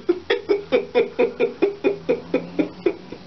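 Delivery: high wheezy giggle run; helpless laughing. Real, not acted. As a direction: crack up mid-sentence. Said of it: "It's not funny".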